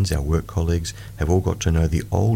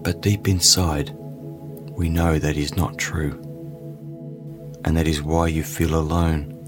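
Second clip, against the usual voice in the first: guided meditation; slower than usual. Acted. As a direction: ease the listener into calm.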